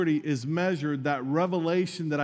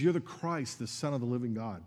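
choked up; 4 semitones lower, 5 dB quieter than usual. Real, not acted. Preacher reciting Peter's confession to the congregation, choked up. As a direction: voice catching, softer on the last words. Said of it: "can't even say that without getting choked up".

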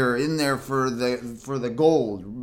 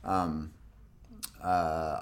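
usual speaking voice

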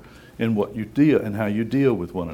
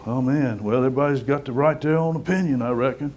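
mock shrug; 2 semitones higher than usual. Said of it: "we go".

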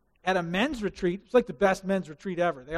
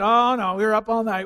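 protesting disciples; 2 semitones higher, 6 dB louder than usual. Acted.

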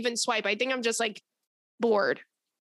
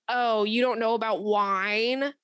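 condescending; slower than usual. Retold or imitated. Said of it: "So condescending for no reason".

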